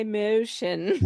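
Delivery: slow "motion" with a mimicked odd vowel; imitated pronunciation. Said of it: "I dare Randy to say".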